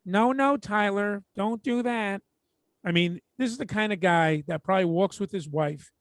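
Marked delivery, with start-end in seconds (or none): 0.0-2.2 higher, mock-pleading no, no, Tyler; whiny weak father. Teller mimics a limp dad begging his hyper son, higher and whiny. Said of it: "all you hear is".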